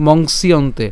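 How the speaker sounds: মংসিয়ন্তে as one connected word; joined together. Shown as a demonstration. Teacher advises not to split, মংসিয়ন্তে joined. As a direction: glide from s into "iyonte" in মংসিয়ন্তে. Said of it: "একসাথে উচ্চারণ করবেন".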